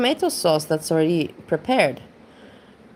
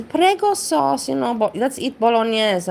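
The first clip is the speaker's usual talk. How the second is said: mother-in-law impression; 5 semitones higher than usual. Retelling how the mother-in-law proudly announced her prego sauce, high.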